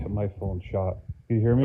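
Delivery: muffled phone audio; talking through a covered mic; finger over the mic. Real, not acted. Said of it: "it just sounds muffled".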